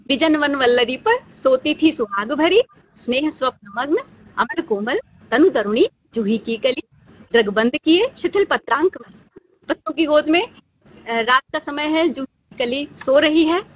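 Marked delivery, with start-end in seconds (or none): 0.1-9.4 measured verse with lifted phrase endings; poem recitation. Acted. Teacher recites love poem to student, poem recitation. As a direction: recite phrase by phrase, pausing between.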